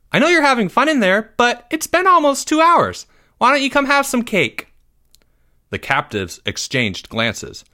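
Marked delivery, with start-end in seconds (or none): 0.1-4.7 high, loud motherly coaxing; loud female voice. A narrator's reading. Mother coaxing boys out for cake, loud and clear. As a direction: call them out in a high mom voice. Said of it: "a female voice so loud and clear".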